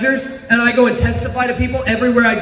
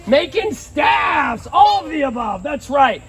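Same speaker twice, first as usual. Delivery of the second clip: excited shout; 5 semitones higher, slower than usual. Real, not acted. Answering the kids excitedly.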